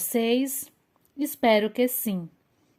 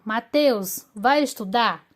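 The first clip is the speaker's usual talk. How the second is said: example command; 4 dB louder than usual. Shown as a demonstration.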